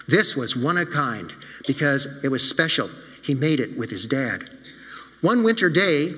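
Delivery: put-on gently paced storytelling for children; story narration. A narrator's reading. Pastor telling the children a story, warm storytelling. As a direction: read it like a bedtime story to kids.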